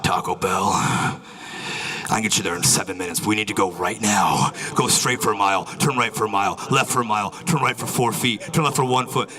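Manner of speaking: brief the route like a secret agent; secret agent app. Pretend. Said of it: "Waze is like the Liam Neeson of maps".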